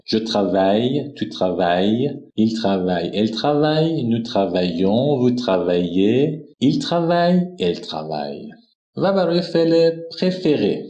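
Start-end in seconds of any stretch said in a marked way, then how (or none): 0.0-8.5 je travaille recited slowly and clearly as a model; French conjugation drill. Shown as a demonstration. Teacher reciting travailler forms for students, clear French drill. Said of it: "ترویه".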